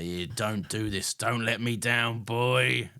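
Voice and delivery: slow, lightly voiced northern dad; understated northern English father. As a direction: plead slowly in a light northern accent. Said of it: "you're doing the wrong voice".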